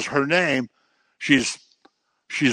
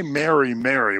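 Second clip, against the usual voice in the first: mild scolding; 3 semitones higher than usual. Retold or imitated. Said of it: "which would have been kind of a scolding".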